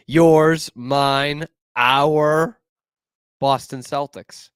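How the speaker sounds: drawn-out arena announcer hype; hyped announcer intro. Acted. Fan hyping his own team to listeners, announcer style.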